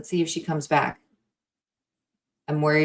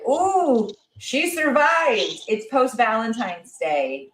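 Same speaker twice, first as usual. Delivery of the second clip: excited; 4 semitones higher, much slower than usual. Retold or imitated. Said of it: "I wanted to just kind of be like".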